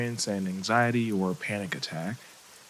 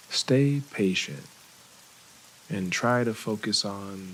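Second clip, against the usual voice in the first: calm voice, lingering between phrases; guided meditation; 3 semitones lower than usual. Real, not acted. Therapist helping a listener notice each inhale and exhale, calm meditation voice. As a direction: gently guide attention to each breath.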